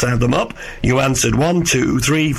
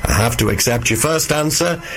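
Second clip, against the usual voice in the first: real hoarse, croaky throat. Real, not acted. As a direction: speak through a croaky voice. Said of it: "apologies for the croaky voice".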